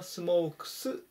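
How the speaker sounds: "smouks", hissless plain s ending; smokes with final s. Shown as a demonstration. Teacher showing third person form, s ending on smokes. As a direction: end smokes on a voiceless s. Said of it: "というふうに発音します".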